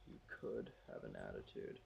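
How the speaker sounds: breathy hushed whisper. Real, not acted. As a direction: say it under your breath. Whispering to the spirit again.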